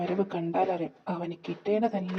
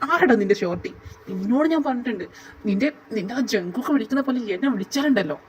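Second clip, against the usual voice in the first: mock anger. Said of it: "എന്റെ ചിമ്മിക്കുട്ട ദേഷ്യപ്പെടുന്നു".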